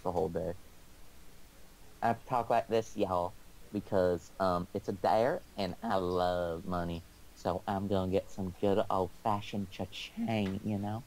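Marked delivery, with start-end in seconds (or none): 2.0-11.0 Southwestern accent. Shown as a demonstration. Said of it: "showing off my Southwestern accent".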